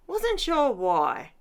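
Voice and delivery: laughing slowly through the words. Real, not acted. Crafter laughs to viewers about the colours bleeding through. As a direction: chuckle while admitting confusion.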